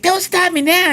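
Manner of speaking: high, scornful repeat of the song title; hammed-up pianist mocking the request; pianist repeating title. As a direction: echo it back with disbelief. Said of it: "He's like".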